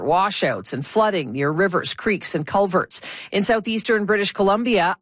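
steady radio newsreader; news read. Acted. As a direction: read it like a newscast. Newscast read.

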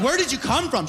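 high, startled squeak of a question. Retold or imitated. Comic startled by a lady in the aisle, high squeak. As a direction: jump out of your skin asking it.

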